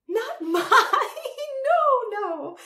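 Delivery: high, loud mad cackle; cackling. A narrator's reading. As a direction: cackle through the words. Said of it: "cackled the Empress".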